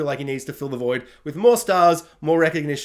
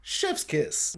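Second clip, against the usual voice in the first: whispered chef's kiss; 7 dB quieter than usual. Real, not acted. Praising the moment.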